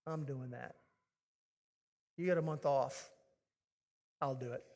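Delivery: low, soft and undramatic; quiet, low-key offer; understated, matter-of-fact. Acted. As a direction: say it simply, no big deal. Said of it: "don't make a big deal ... simply say".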